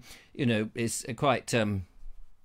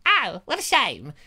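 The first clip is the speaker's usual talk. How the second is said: higher put-on voice of disappointment; mock disappointed flirt; 4 semitones higher than usual. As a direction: sigh it as the let-down flirt. Same put-on character answers, disappointed.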